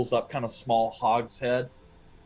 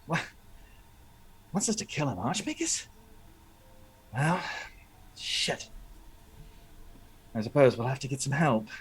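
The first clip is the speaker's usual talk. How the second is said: incredulous third voice; 6 dB quieter than usual. Acted. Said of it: "a third voice enter".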